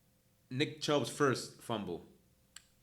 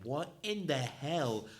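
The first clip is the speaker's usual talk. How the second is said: stunned disbelief; 3 semitones higher than usual. Retold or imitated. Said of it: "with my mouth wide open, like".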